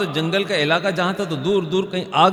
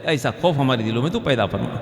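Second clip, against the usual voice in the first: prayer. Acted. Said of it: "اللہ سے دعا کرنی چاہیے". (دعا کا عاجزانہ لہجہ)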